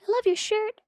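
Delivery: a sly little voice from nowhere; a peanut whispering a compliment to a stranger; creepy little peanut voice. Retold or imitated. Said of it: "Your little creepy voice is ridiculous".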